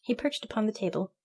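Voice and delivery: usual speaking voice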